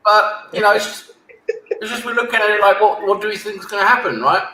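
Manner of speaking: talking around an ice cube; words muffled by ice in the mouth. Real, not acted. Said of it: "I've got an ice cube in my mouth".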